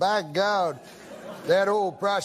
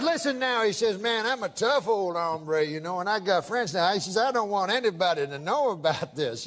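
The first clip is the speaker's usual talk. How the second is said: drawling prospector voice. Retold or imitated. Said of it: "I can tell by the accent".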